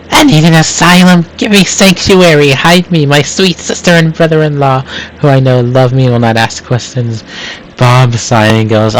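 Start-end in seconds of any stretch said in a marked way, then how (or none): 0.1-7.2 high frantic pleading yell. Acted. Gale bursts into the restaurant begging, high frantic yell. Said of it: "Gale yelling".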